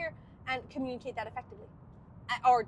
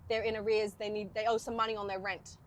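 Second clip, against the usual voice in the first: Australian-accented legal talk; Aussie accent; 2 semitones lower, 3 dB quieter than usual. Shown as a demonstration. Talking legal stuff about arrears, Aussie accent. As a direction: let the Aussie come out. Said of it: "that does turn into more Aussie".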